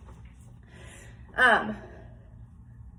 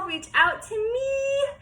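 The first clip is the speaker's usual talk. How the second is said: higher, slow and tender; tender farewell; 5 semitones higher, slower than usual. Real, not acted. Teacher's farewell to her class.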